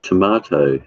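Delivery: tomato said tom-AH-to, broad A like British English; tomato, British style with ah. Shown as a demonstration. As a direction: say tomato with the ah vowel, toh-MAH-toh. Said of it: "some people say tomato, but it's tomato".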